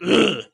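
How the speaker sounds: short rough grunt, mimicking him; imitated grunt. Imitating a fighter's opening move, mock grunt. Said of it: "him going like".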